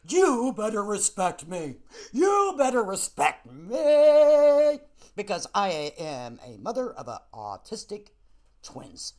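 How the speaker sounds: slow, overblown mock-dramatic demand that fades to nothing; grandiose imitation. Mocking a viewer's grandiose demand, hammed-up slow imitation. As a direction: ham up a self-important diva. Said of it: "she gets, like, very grandiose".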